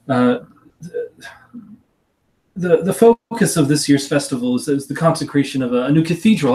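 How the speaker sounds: a genteel aunt explaining family matters. Acted. To her returning niece, a lightly voiced genteel aunt.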